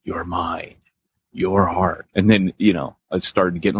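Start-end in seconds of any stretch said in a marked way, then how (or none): 0.0-2.1 imitated meditative track. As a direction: mimic a meditative recording, with pauses. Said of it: "it was very meditative".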